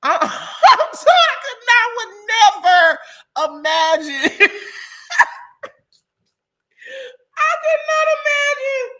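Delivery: high, loud squeals through laughter; breathless hysterics. Real, not acted. Overcome by the trip gossip, in breathless hysterics. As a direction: shriek it out, helpless with laughing. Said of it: "I can't breathe".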